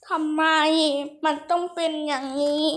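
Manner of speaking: long-drawn theatrical lament; mock despair. Player laments his defeat in the game, hammed-up despair. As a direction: wail it like a tragic hero, ending in a sighing sob.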